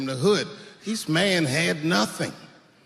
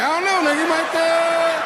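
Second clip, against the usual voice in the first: retold half-suggestion in a high voice; tentative mock suggestion; 12 semitones higher, 4 dB louder than usual. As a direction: pitch it way up and stretch the last words. Retold suggestion to his friend.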